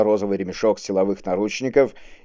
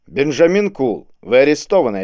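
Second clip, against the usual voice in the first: announcing; 4 semitones higher, 4 dB louder than usual. A narrator's reading. Inspector Серёгин tells Кул he is arrested, announcing. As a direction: announce it firmly, a little raised. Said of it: "объявил Серёгин".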